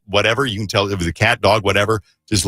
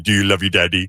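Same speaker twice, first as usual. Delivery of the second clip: put-on baby talk to pet. Shown as a demonstration. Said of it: "That's how I talk to Josie".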